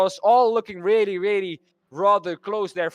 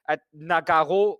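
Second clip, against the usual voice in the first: attempting a French accent on Nogaro; 2 semitones lower than usual. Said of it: "I'm trying to do my best French accent".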